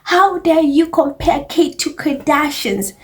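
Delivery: mock indignant whisper, then drawn out; mocking outraged fan. Vlogger mocking angry royal fans, hushed mock outrage. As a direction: sneer it like a scandalised royal fan. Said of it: "It's like".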